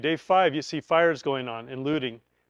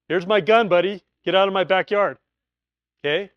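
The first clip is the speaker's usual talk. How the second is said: threatening; 2 semitones higher, 5 dB louder than usual. Retold or imitated. Armed neighbor threatens.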